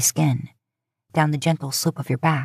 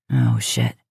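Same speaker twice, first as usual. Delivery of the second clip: startled curse. Acted. Dean sees the time.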